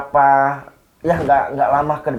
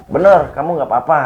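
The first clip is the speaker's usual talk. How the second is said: sharp insistence; 5 dB louder, faster than usual. Retold or imitated. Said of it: "Aku sampai sentak-sentak".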